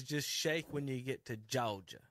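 slow, lightly imitated rapper's Georgia accent; imitating a rapper. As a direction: quote the rap line slowly in a mock Georgia accent. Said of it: "that's how he says it".

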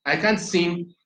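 trailing off. Real, not acted. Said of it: "I lost my train of thought".

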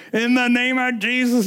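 high-pitched re-enacted rebuke; commanding prayer. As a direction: drive the devil off with it. Re-enacts fighting fear with prayer.

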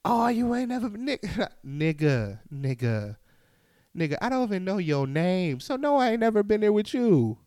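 high, loud disbelieving comeback; mock outrage, high and loud; incredulous retort. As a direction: fire back at the stranger. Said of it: "I'm looking like".

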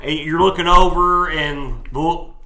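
measured, dramatic scene-setting; game master narration. Acted. Game master describing the aftermath to players, dramatic narration. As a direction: lay out the grim scene piece by piece.

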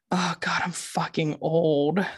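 hushed, slow whispered dismay; under-the-breath whisper; whispered thought. Retold or imitated. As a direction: breathe it out like a private groan. Retold thought after falling.

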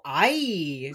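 loud, drawn-out Hispanic "ay"; Hispanic yelp of surprise. Retold or imitated. Imitating reaction to being surprised, Hispanic yelp. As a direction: yelp like a startled Latina. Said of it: "I don't often sound Hispanic".

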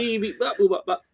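high beeping robot; toy robot voice. Pretend. Robot beeping, much higher.

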